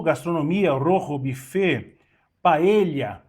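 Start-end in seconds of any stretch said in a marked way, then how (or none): 0.7-2.0 "rojo" said with a rasped h-like r; correct pronunciation. Shown as a demonstration. Teacher showing how to say "rojo" correctly. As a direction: say "rojo" as "roho". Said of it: "pronúncia correta".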